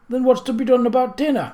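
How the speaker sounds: high, loud indignant demand; angry demand. Acted. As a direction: demand it, outraged. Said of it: "Missus Pratt demanded angrily".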